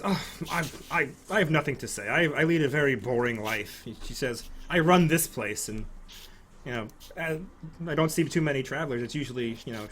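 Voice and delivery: demure deflection; lightly voiced noblewoman.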